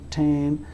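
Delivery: "tain" with a puff of air on the t; aspirated t. Shown as a demonstration. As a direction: start "tain" on an airy released t. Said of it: "being pronounced with a puff of air".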